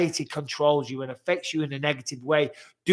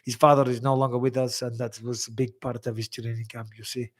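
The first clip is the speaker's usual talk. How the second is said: put-on loose Russian accent; light attempt at a Russian fighter's accent; half-hearted Russian-accented impression; Khabib impression; 2 semitones lower than usual. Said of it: "You have the best Khabib impressions".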